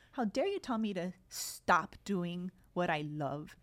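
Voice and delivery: mock angry. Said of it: "the really angry Marley".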